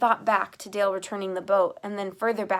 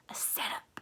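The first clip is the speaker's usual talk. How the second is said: voiceless, much softer whisper; breathed; 12 dB quieter than usual. A narrator's reading. Girl realizes the sheriff's plan, breathless whisper. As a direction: breathe it in awe. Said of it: "I breathed".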